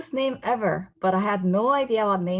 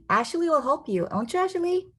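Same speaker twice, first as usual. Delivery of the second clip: mom; 9 semitones higher than usual. Acted. Mom voiced asking cousin.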